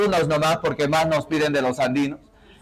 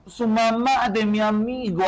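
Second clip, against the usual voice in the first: lightly imitated Andean Spanish phrasing. Shown as a demonstration. Teacher showing class the possessive, imitated Andean accent. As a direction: speak like an Andean Spanish speaker. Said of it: "así habla".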